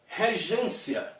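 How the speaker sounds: regência said slowly, gên drawn out; stress on penultimate syllable. Shown as a demonstration. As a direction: stretch the middle of regência. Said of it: "qual é a sílaba mais forte". (regência devagar, com gên mais forte)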